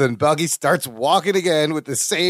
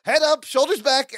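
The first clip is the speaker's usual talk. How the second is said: lightly imitated instructor, pitched higher; yoga teacher; 6 semitones higher than usual. Larry correcting Balki's posture, lightly voiced yoga teacher. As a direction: coach it like a yoga class, a bit higher. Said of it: "like he's leading a yoga class".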